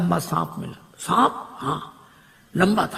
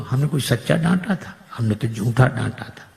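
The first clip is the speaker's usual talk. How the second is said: laughing husband; 3 semitones lower than usual. Acted. Husband admits the fake scolding.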